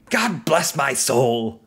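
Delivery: put-on slow, drawn-out old man voice; lightly voiced old-timey old man. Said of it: "old men who are playing minors".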